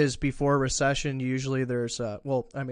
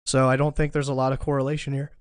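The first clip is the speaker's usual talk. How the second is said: talking through the hiccups; hiccupping between words; faster than usual. Real, not acted. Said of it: "I got the hiccups".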